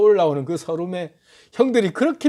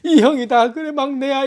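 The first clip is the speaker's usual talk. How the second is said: a hint of crying, higher on the reunion words; tearful; 6 semitones higher than usual. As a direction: voice catching with tears. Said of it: "대성통곡을 하면서 울면서".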